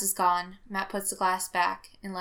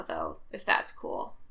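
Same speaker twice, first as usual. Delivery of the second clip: fading out; 3 dB quieter, slower than usual. Acted. Fading into unconsciousness.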